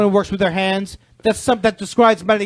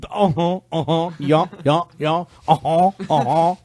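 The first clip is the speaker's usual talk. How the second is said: uh-huh guy; 3 semitones lower than usual. Pretend. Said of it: "the guy's going".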